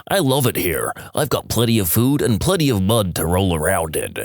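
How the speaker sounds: ventriloquist's pig, lightly voiced; talking pig voice. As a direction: throw the voice as a pig. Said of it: "he makes it seem as though the pig replies".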